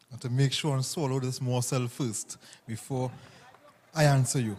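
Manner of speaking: mouth full. Real, not acted. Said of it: "You want me to speak with my mouth full".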